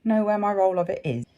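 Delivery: hiccup jolts mid-phrase; speaking through hiccups. Real, not acted. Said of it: "sorry about the hiccups".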